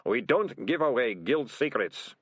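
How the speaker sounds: slow, emphatic reprimand; snapped. Acted. Senior ratcatcher guarding guild secrets, mildly snappish. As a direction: warn him off with measured irritation. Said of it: "Ratcatcher One snapped at him".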